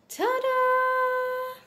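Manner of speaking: high, loud showman reveal. Acted. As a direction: present it like magic. Presenting the tray.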